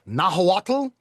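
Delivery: "Nahuatl" as NAH-wah-tl, rising tentatively; halting try at "Nahuatl"; unsure attempt. Shown as a demonstration. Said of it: "I don't know how to pronounce that".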